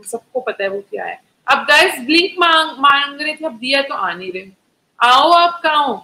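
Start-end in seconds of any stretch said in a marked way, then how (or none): 5.0-5.9 louder call to the chat to come join; louder, beckoning viewers. Real, not acted. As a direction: call them in, voice raised. Calling viewers to join link.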